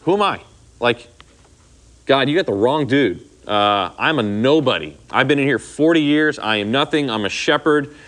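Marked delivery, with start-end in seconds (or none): 0.0-3.2 Moses balking, lightly voiced; incredulous Moses. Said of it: "All right, excuse one".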